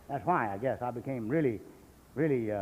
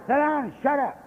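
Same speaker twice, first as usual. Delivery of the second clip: retold bark, a notch louder and higher; gruff order; 5 semitones higher, 3 dB louder than usual. Old sponsor snapping at the young drunk, gruffly. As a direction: order him to sit down and shut up. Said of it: "He said".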